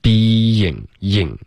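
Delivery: BEING as bee-ying, then YING alone; y glide. Shown as a demonstration. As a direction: isolate the "ying" after a drawn-out "being". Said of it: "有一个y". (being 读出 y，再单读 ying)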